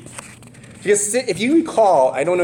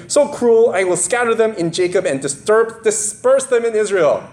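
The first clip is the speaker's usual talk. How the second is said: angry father Jacob; 5 semitones higher than usual. Acted. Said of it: "That was Jacob's blessing".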